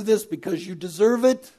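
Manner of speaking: preacher mocks a wrong reading of the verse, sarcastic rise; mock question. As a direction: toss it off as an absurd idea. Mock misquote of the Bible.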